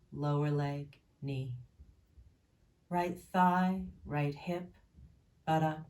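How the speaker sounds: calm, measured meditation voice with long pauses; even, unhurried guidance in short, spaced phrases; guided body-scan meditation. Real, not acted. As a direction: list each body part evenly, leaving space after it.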